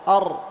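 أر with the tongue tip rolling on the r; trilled r. Shown as a demonstration. Teacher to students, showing the r trill on أر. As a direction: roll the r in أر clearly. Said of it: "ارتعاد رأس اللسان حال النطق بالراء".

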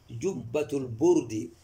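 slow "جبة البرد" as jubbatu l-burdi; u vowel, drawn out. Shown as a demonstration. Teacher models the corrected phrase slowly, burd with u. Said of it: "البرد ليس البرد".

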